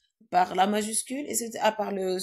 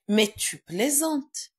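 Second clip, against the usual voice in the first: mock surprise; 2 semitones higher, 4 dB louder, much slower than usual. Shown as a demonstration. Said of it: "Il est choqué, il est surpris".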